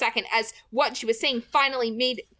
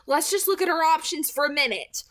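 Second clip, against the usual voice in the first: coaxing; 8 semitones higher than usual. A narrator's reading. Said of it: "Archie coaxed".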